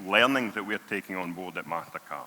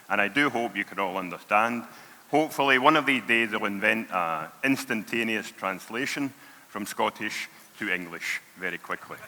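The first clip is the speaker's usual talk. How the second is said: natural broad Scottish accent, everyday speech. Real, not acted. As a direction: speak in a thick Scottish accent. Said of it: "a very, very strong Scottish accent".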